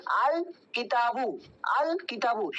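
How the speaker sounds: slow "আল কিতাবু" with a clearly sounded ল in আল; clearly pronounced lam. Shown as a demonstration. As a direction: demonstrate "আল কিতাবু", giving the ল its full sound. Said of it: "আলিফ লামের উচ্চারণটা কিন্তু স্পষ্টভাবে করলাম". ("আল কিতাবু"-তে ল স্পষ্ট উচ্চারণ)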